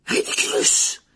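loud spell shout; exclaimed spell. A narrator's reading. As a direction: cast the spell with a sudden cry. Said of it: "s'exclama Parvati". (incantation lancée avec force)

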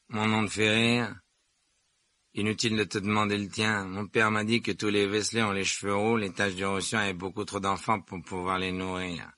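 lightly voiced haughty schoolboy; sneering Malfoy. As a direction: talk down to him, a touch of disdain. Narrator voices Malfoy sneering at Ron.

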